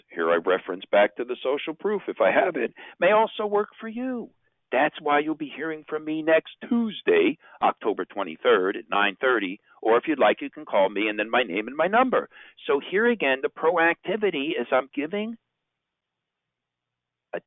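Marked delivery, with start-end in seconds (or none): 3.0-12.3 leaving a voicemail. Shown as a demonstration. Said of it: "let's look at a closing bookend".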